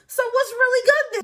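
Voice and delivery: high, loud, quick mock challenge; confrontational challenge. Friend squaring up to the bouncer, confrontational. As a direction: back your friend up, spoiling for a fight.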